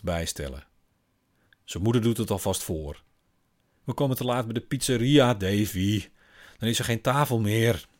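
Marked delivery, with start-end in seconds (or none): 3.8-7.9 higher, louder mother coaxing; mother urging son. Acted. Mother pushes crying Davy to leave, higher and louder. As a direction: hurry him along with strained patience.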